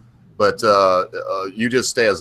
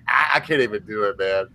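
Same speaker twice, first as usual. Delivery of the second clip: imitating the phone lady; 2 semitones higher than usual. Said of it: "broke back with her own voice".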